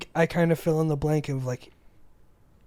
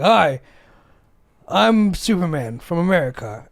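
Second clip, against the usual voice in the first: louder proud hello; mock hero greeting; 2 semitones higher, 6 dB louder than usual. American landing abroad greeting locals, proud. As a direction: announce yourself as a hero. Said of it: "I'm like".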